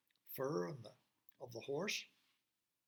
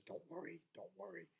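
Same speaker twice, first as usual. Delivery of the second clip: hushed, soothing voice in the ear; gentle and much quieter; soft reassurance; 9 dB quieter, faster than usual. Acted. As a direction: reassure very softly, almost whispering.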